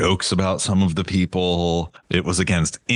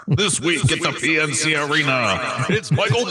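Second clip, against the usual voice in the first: booming high announcer hype; monster truck ad; 7 semitones higher than usual. Pretend. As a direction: sell it like a Sunday Sunday Sunday ad. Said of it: "car crusher monster truck commercials".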